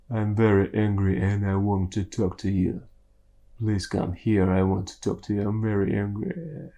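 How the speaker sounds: low, quiet mock-angry voice. Shown as a demonstration. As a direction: hold the anger down low and soft. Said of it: "speak in your angry voice".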